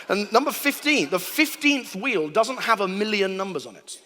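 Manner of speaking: ordinary talk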